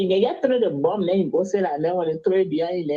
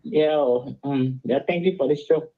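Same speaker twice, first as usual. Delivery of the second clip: phone in mouth; 6 semitones lower than usual. Real, not acted. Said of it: "I can't put my phone in my mouth".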